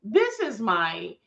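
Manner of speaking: drawn-out, deliberate YouTube presenter voice; slow on-camera announcing voice. Shown as a demonstration. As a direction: present it slowly, word by word. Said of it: "YouTube voice".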